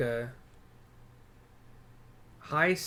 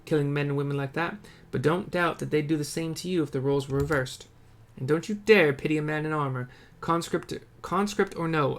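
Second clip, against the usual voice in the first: resistance fighter; 3 semitones higher, 4 dB louder than usual. Acted. Rebel fighter telling the hero about the battle, grim and proud. Voices an NPC soldier.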